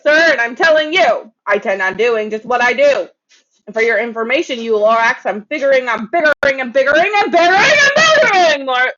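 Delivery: loud, high furious shout; angry yell. A narrator's reading. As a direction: yell back at him in a rage. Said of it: "I yelled at that Lorax".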